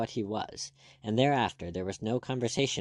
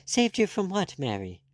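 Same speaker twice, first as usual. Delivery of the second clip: high shocked question; aghast; 9 semitones higher, 4 dB louder than usual. A narrator's reading. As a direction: ask in shocked disbelief. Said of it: "Miss Bishop was aghast".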